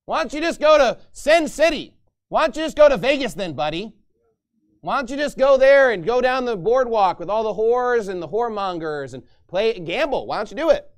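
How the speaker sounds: loud, high sarcastic taunt; mocking. Pastor voicing God taunting the sinners, loud mock. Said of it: "God is mocking these sinners, saying".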